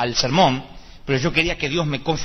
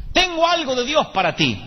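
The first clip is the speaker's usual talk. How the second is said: mock solemn brother; 10 semitones higher than usual. Imitating brother with prophecy.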